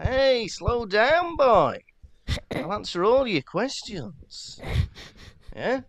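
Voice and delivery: drawn-out mock gruff teacher telling him to slow down; Mad-Eye Moody impression. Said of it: "Mad-Eye Moody".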